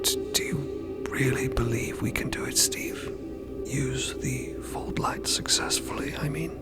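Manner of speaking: very soft, unsure whisper; hesitant hushed question. Acted. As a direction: ask it timidly under your breath. Doubtful ask, very soft, breathy.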